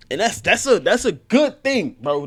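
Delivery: loud, high and emphatic; hyped approval. Real, not acted.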